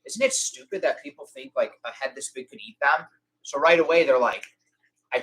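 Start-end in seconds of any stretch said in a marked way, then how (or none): 0.1-3.1 mock incredulous. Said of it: "this is what I say".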